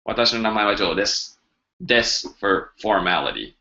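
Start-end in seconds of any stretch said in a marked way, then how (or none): 0.1-1.4 natural fast take. Shown as a demonstration. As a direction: rattle the whole sentence off fast. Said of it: "can you give an example how to introduce yourself".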